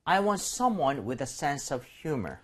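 slow, measured English for a learner to repeat; model reading. Shown as a demonstration. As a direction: read it out slowly as the teacher. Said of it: "본문 읽어볼게요". (따라 읽도록 천천히 시범 낭독)

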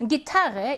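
Gitarre with TAR stressed; second-syllable stress. Shown as a demonstration. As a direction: model Gitarre, leaning on the middle syllable. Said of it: "이 음절 강세어입니다".

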